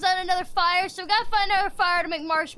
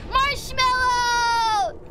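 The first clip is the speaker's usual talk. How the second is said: drawn-out call; 4 semitones higher, 4 dB louder, much slower than usual. Real, not acted.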